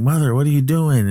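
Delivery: high-pitched imitation of an upset son; retold anxious cry to mother; mock distraught question. Retold son confronting his mother.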